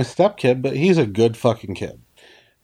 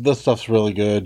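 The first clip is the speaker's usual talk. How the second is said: offhand doctor's assurance, retold; quick retold reassurance, falling away at the end; casual reassurance; 3 semitones lower than usual. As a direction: brush off the worry, easy and a little low. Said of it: "Oh no, don't worry".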